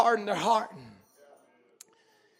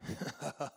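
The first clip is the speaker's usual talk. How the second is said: very soft, low chuckle; Sarah's disbelieving laugh; 8 semitones lower, 15 dB quieter than usual. Acted. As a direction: laugh under it, doubting. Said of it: "Why was she laughing full of unbelief".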